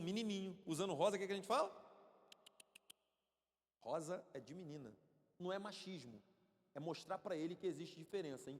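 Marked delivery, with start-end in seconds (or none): 3.8-4.9 low, gentle fatherly voice; lovingly setting a child straight; gentle, loving correction. Acted. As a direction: explain it kindly, pitched low. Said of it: "mostrar isso com amor".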